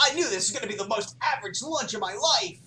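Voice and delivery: fast, hammed-up crying wail; mock wailing. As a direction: sob it out like a soap opera. Melodramatic parody of line.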